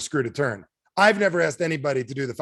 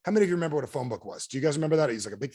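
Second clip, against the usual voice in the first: ordinary talk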